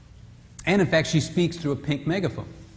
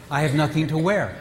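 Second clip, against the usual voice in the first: said one way with one meaning; first reading of the same words. Shown as a demonstration. A husband hears nothing to wear one way. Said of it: "say the same exact words".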